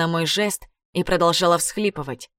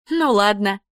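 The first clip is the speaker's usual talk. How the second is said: покровительственно; 3 semitones higher, 3 dB louder than usual. A narrator's reading. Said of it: "покровительственно улыбнулась".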